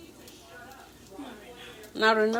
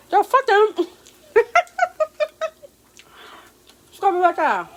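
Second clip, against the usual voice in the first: excited teasing; 10 semitones higher, 6 dB louder than usual. Real, not acted. Teasing laugh, excited squeals.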